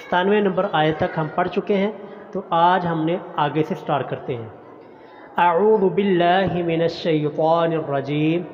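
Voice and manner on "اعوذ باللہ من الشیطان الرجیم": slow, chanted Arabic recitation; measured melodic Quran chant. Shown as a demonstration. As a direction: recite with tajweed, stretching the vowels. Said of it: "opening the Quran reading".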